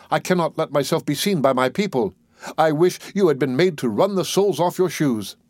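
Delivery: mild mock scream at the girls; screaming dwarf. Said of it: "he screamed out".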